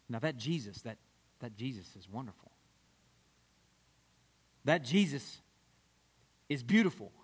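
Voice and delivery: hushed awe. Acted. Worshiper speaks softly in awe.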